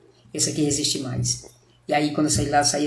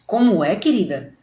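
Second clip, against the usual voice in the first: mock disbelief; 2 semitones higher than usual. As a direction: retell your shock at the price, lightly incredulous. Shocked customer reacts to the price.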